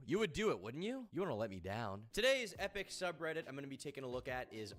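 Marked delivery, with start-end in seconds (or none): 0.1-2.0 pleading. Pretend. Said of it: "it would make me feel a lot better".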